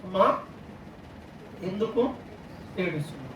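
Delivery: soft, halting question in the Lord's voice. Retold or imitated. The Lord asks a weeping woman, lightly voiced, gentle pauses. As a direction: ask lightly, falling low, with pauses between words. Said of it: "ప్రభు అందుకే వచ్చి ... question అడిగాడు".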